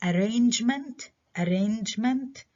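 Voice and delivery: arrangement stressed on RANGE; stress second syllable. Shown as a demonstration. Teacher modelling for students, arrangement with RANGE stressed. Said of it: "برضو الستريس على المقطع هذا".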